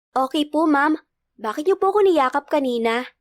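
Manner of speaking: lightly voiced polite child; a hint of a small boy asking; little boy. Boy asking why she hugged him, lightly childlike. Boy asks woman about hug.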